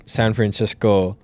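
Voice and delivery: slow, drawn-out accented place name; stretched San Francisco with a slight accent; unintended accent. Real, not acted. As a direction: let an accent slip into the name. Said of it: "Why did I say that with, like, an accent".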